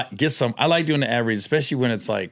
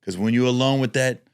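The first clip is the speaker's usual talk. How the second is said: ad read. Pretend. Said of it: "Let's do a mock one".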